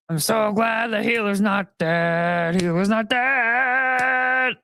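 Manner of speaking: slow drawn-out mock chant; healer sound effect. Making a healer sound effect for the video, slow and drawn out. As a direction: stretch the line like a game sound cue. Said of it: "continuing to make the noise".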